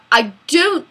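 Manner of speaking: slow Australian attempt drifting English; Australian accent slipping into English. Shown as a demonstration. Failing the viewer's dare, Australian accent turning English. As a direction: let the Australian accent slide towards English. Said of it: "now it became English".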